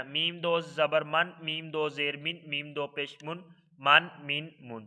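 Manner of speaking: slow, even chant of letter, harakat, sound; Qaida spelling drill. Shown as a demonstration. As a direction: sound it out syllable by syllable for the class. (قاعدہ کی ہجے کی مشق، ٹھہر ٹھہر کر)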